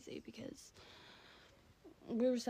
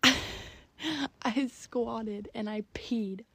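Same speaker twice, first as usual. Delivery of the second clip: laughing through it; 9 dB louder, much slower than usual. Real, not acted. Laughing while confessing a story.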